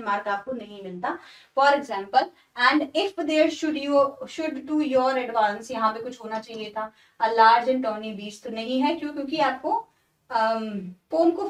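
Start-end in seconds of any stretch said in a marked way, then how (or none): 2.7-5.7 slow, deliberate recitation of the line; poem reading. Shown as a demonstration. 7.2-8.4 slow, deliberate recitation of the line; poem reading. Shown as a demonstration.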